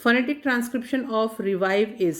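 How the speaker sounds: slow, deliberate reading of the quiz line; slow question reading. Shown as a demonstration. Teacher reading a quiz question to students, slow and deliberate. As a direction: read each word out clearly and slowly.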